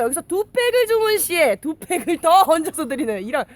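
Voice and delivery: lightly loud sales pitch; home shopping host. Acted. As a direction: push the deal like a TV host. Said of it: "홈쇼핑 버전".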